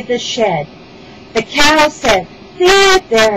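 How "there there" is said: high, loud consoling call; soothing cow. A narrator's reading.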